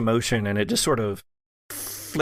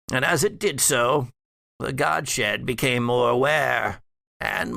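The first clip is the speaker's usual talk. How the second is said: put-on measured, ominous old patriarch; undead father. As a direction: speak as the long-dead father recounting dark history. GM voicing the undead father NPC.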